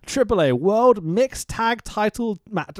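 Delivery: slow, deliberate title read; slow careful reading. Shown as a demonstration. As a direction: spell out the title slowly. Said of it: "that's hard to say".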